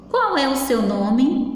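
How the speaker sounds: slow question on "Qual é o seu nome?", "nome" drawn out; question intonation. Shown as a demonstration. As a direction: ask "Qual é o seu nome?" slowly and clearly. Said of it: "Que eu fiz uma pergunta".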